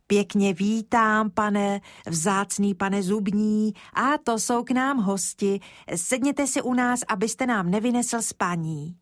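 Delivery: put-on a small boy making a grand polite greeting; solemn little boy. Kája's formal greeting to dentist.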